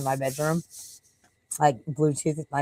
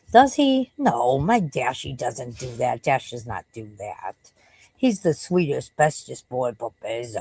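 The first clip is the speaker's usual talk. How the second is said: doting pet talk; 4 semitones lower, slower than usual. Acted. Doting on a viewer's dog.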